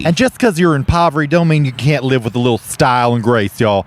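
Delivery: hammy folksy TV host; Southern cooking show hosts. Pretend. Two hosts pitch a turkey to viewers, folksy Southern.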